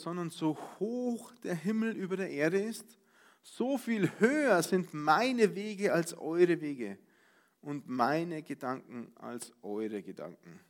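slow, solemn Bible reading; measured, solemn scripture recital. Acted. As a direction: read the verse weightily and slowly. Preacher quotes Isaiah verse.

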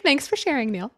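usual speaking voice

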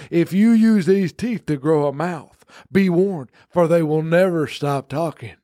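slow, grave curse-like warning; ominous slow warning. Pretend. Teeth dealer warning the buyer, slow and grave. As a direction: intone it like a dark prophecy.

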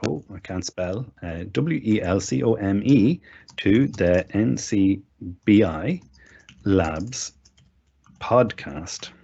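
slow, halting, word by word; drawn-out words with gaps between; dictating while typing. Real, not acted. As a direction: speak each chunk as you type it. Dictates aloud while typing text.

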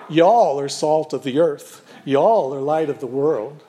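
mock Southern accent, a bit sheepish. Pastor imagining Jesus from the South, mild Southern accent. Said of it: "Pardon my lousy Southern accent".

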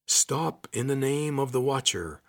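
loud, slow, high commanding shout; booming deep voice. Acted. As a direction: boom it out like a guard. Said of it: "a deep voice boomed out".

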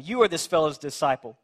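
mildly scornful accusation, stressed opening; hurled insult. Acted. Pharisees hurling insults at healed man, mild scorn. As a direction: throw it as an insult, with restraint. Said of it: "They hurled insults at him".

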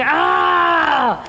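high desperate plea for attention; pleading feminine voice. Acted. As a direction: cry out to be seen. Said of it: "your feminine is sitting there going".

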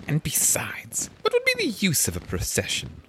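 breathy private whisper; whispered thought. Acted. Alice thinking to herself in a whisper. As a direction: whisper it to yourself. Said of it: "thought she".

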